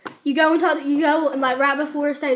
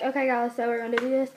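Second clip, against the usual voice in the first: low-key, softer teacher talk; teacher starting class; 3 semitones lower, 7 dB quieter than usual. Retold or imitated. Student imitates her teacher starting class, low-key and soft. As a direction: start the lesson in an understated voice. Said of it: "you know, talking early".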